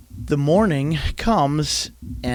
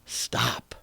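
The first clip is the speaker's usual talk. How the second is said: firm stop; 4 semitones lower, 8 dB quieter than usual. Shown as a demonstration. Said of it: "stand right up to them and say".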